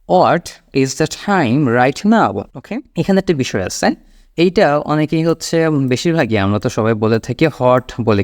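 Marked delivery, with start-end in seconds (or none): 0.1-2.4 very slow, stretched-out English; slow model question. Shown as a demonstration. Teacher models asking the time, very slowly. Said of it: "আপনি মুখ দিয়ে বার করবেন". 7.5-7.9 "হট" with a voiced-out H at the start; wrong H-sound. Shown as a demonstration. Teacher shows the common mistake, "হট" with H. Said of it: "তো এটা হট না".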